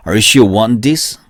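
"want this" linked with almost no t; t dropped in want. Shown as a demonstration. Teacher models the question for learners, "want this" with t barely sounded. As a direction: glide from the n of "want" straight into "this". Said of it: "트 발음을 이제 뭐 거의 안 한다".

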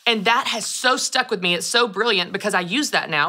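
ordinary talk

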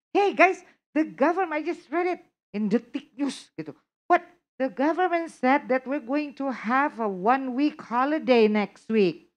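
high, loud, eager news-breaking; excited announcement. Shown as a demonstration. Teacher announcing a holiday to students, loud and excited. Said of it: "to respond to me when I say".

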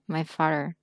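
MY FATHER slightly deepened. Shown as a demonstration. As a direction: sink the voice a touch on the phrase. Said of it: "mình phải làm trầm giọng mình xuống".

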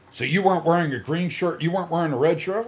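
imitated cop questioning. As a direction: lightly mimic a pestering cop. Retold cop questioning him.

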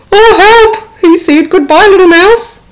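high loud frightened cry; panicked fox. Acted. Fox fleeing the gruffalo in a panic. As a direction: yelp and hurry away.

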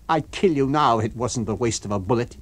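a hint of cold threat; mild menace. The invisible man threatens Eddie, menacing.

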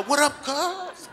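mock LA gang greeting; gang member.

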